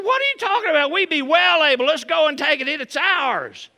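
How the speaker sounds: rally them to take the land; bold Caleb. Retold or imitated. Caleb urges the doubting Israelites on, a loud, high rallying shout. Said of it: "Caleb said".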